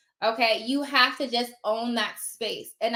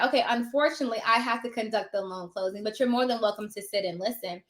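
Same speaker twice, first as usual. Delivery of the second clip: polite but firm; 4 dB quieter than usual. Retold or imitated. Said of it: "I would just say".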